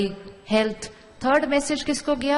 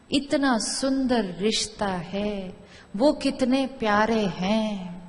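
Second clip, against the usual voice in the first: slow, gentle affirming voice; calm affirmation; slower than usual. Shown as a demonstration. Teacher showing a blessing thought, slow and gentle. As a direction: speak each line slowly, as a blessing. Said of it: "अब मैंने एक, एक thought create करना शुरू की".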